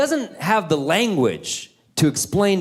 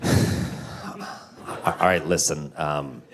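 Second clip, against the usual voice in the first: hushed confession; 11 semitones lower, 5 dB quieter, much slower than usual. Retold or imitated. Parent whispers confession to kid.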